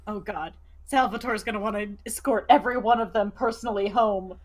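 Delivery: dismay building to a loud wail; exasperated panic that peaks late; terrified dread. Acted. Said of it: "Nyla looks, like, terrified".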